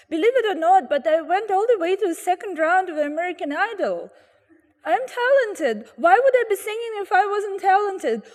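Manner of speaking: mock tearful wail, pitch up; crying. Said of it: "she starts crying and saying".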